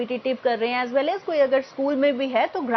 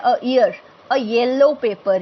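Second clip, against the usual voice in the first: slow careful example; 4 dB louder, much slower than usual. Shown as a demonstration. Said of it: "teacher models example slowly".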